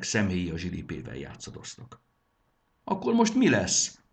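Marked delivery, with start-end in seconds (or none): 2.8-4.0 much higher, louder despairing wail; wailing cry. A narrator's reading. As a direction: cry out in dismay. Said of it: "jajdult fel". (kétségbeesett jajdulás)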